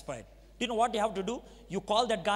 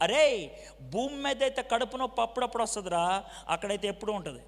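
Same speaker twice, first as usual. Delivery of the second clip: quick, offhand Telugu aside that ends in a laugh; imitating a friend, fast and amused; imitating his friend; much faster than usual. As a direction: rattle it off like a friend teasing. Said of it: "I can exactly enact the way he said".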